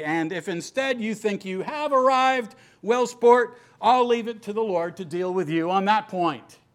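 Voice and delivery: gentle, wry, lightly sarcastic tone. Paraphrasing a verse from Paul's letter aloud: imitating a slightly sarcastic tone. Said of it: "I take that slightly sarcastically".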